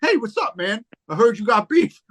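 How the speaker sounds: a light sweet-talk before a sucker punch; soft-spoken Mel. Retold or imitated. Imitating Mel greeting him sweetly before a sucker punch. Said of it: "Soft spoken".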